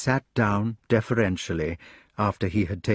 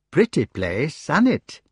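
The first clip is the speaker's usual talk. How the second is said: rustic hedgehog voice; 4 semitones higher than usual. Acted.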